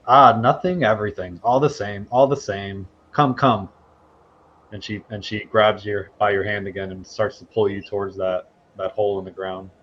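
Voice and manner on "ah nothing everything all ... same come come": put-on louder, riddling old mystic; lightly voiced seer speaking in riddles; cryptic old seer. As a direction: intone it like a mad old sage beckoning. GM plays cryptic Augur.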